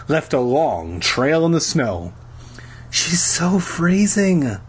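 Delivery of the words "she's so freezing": high, drawn-out whine; crying out. A narrator's reading. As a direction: wail it slowly in a high voice. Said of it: "Lauren cried".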